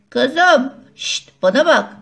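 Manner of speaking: loud call to get her friend's attention; calling too loud. Acted. Girl calls her friend far too loudly. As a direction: shout over to her friend. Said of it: "Ne bağırıyorsun ya?".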